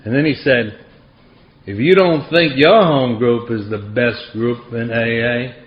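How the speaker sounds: a hint of Franklin's Southern accent, unhurried; gentle imitation of a Southern AA old-timer. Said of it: "he had this thick Southern accent".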